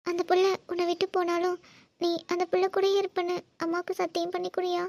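tearful mother begging for a promise; crying plea. Acted. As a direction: plead in halting, weepy phrases. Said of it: "நீங்க இப்படி அழுகிறது தான்".

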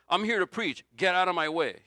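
hammed-up annoyed preacher pushing people aside; mock impatient brush-off. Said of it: "but he doesn't go".

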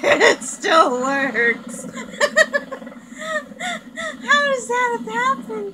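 high, laughing so hard it squeaks. Real, not acted. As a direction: laugh through the words. Laughing at game glitch.

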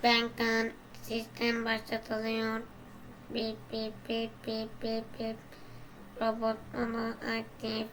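toy robot voice. Pretend. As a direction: speak like a stiff little robot. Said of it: "robot konuşuyor".

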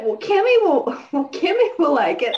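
laughing through a hammed-up mom; imitating Mom. Sister mimics Mom insisting Kimmy will like it, high. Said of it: "she was like".

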